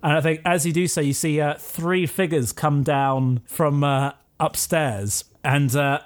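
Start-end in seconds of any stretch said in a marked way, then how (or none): none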